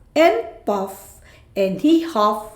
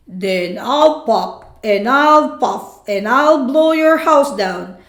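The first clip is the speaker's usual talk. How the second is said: wolf threat; 3 dB louder than usual. Acted. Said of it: "cried the wolf".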